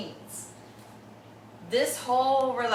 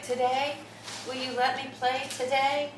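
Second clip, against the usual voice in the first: lightly voiced hopeful dog, higher pitch; pleading dog; 6 semitones higher than usual. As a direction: ask like an eager pet, a little higher. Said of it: "He gives me the look. He's like".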